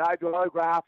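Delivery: words run together, thick and slurred; slurred speech. Retold or imitated. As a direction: slur it like a town drunk. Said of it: "he kinda slurred his word".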